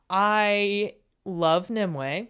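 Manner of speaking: slow, drawn-out "I love Nimue"; gushing. Real, not acted. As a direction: savour the name, full of affection. Gushing about her guest.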